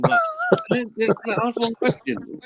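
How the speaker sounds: crusty sick voice. Retold or imitated. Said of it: "the Ponytail voice, all crusty".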